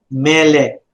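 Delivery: "Melek" stressed on ME, falling away on lek; first-syllable stress. Shown as a demonstration. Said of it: "your pronunciation now would be".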